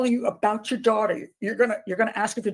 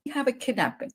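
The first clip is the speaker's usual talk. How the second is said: mocking; 4 semitones higher, 4 dB quieter than usual. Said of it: "Who says that?".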